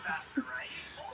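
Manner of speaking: soft unvoiced laugh, whispered; hushed little laugh; breathy laugh. Real, not acted. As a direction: let out a quiet embarrassed chuckle. Small embarrassed laugh after mistake.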